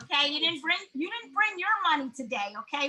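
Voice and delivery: put-on lightly firm mom talk, accent dropped; real mother voice. Mother to son about spending money, mild real-mom voice. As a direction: spell it out like a mom ending the debate. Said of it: "put on my real mother voice".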